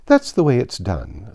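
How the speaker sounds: firm, decided statement; with great decision. Acted. Queen explaining to Alice, firm and decided. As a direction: settle it with certainty. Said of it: "with great decision".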